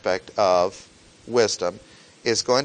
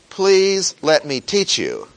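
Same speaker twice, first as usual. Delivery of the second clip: louder, higher pleading; a teacher pleading louder and higher; insistent plea; 5 semitones higher, 5 dB louder, slower than usual. Acted. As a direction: beg loudly, leaning on please. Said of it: "no matter how much the teacher may say".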